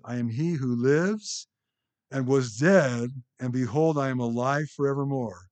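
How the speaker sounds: scripture reading building. Acted. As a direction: let the vision swell towards the fall at his feet. Reads Jesus's words aloud.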